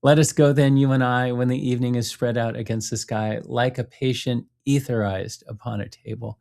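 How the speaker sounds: teacher savoring a favorite poem aloud; poem recital. Shown as a demonstration. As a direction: recite the lines as if tasting them. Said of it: "I'm gonna fight the urge to read it".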